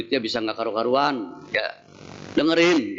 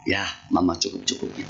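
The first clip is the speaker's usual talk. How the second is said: soft, quick, accommodating reply; gentle wife; 7 semitones lower, 4 dB quieter, faster than usual. Retold or imitated. Sweet wife answers husband about grocery money, softly. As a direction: reassure him it's enough, gently. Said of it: "Enak nggak didengar ya?".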